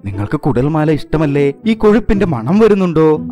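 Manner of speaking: tempting him through the door with a high, loud call. A narrator's reading. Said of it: "സിയോൺജി വിളിച്ചു പറഞ്ഞു".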